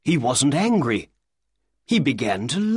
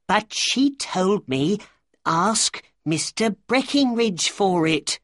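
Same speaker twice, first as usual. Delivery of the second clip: protesting little man; 9 semitones higher than usual. A narrator's reading. Little man to the angry shopkeeper, high protesting voice. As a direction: plead your case in a high little voice.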